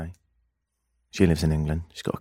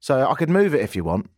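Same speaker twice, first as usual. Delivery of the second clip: put-on babysitter voice; 8 semitones higher, 4 dB louder than usual. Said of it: "She says".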